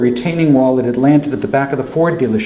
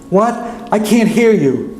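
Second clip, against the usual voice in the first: calling out; 9 semitones higher than usual. Acted. Aunt calling back over flood.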